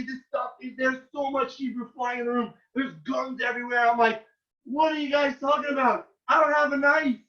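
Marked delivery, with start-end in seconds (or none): 4.6-7.2 higher, baffled protest; acted incredulous denial; retold protest. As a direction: plead innocence to the soldiers. Protesting in the army base.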